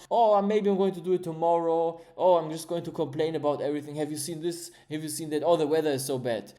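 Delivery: mock lazy complainer, moaning about everything; lightly hammed-up moaning about the weather; whiny complainer. Motivational speaker mocking lazy people, light whiny moan. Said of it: "those who just sit around".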